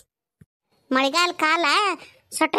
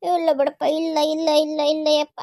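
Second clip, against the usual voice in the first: lilting, repeated reassurance; soothing baby talk. Acted. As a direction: hush a crying baby in a steady croon. Hushing a crying baby. (ಮಗುವನ್ನು ಸಮಾಧಾನಿಸುವ ದನಿ)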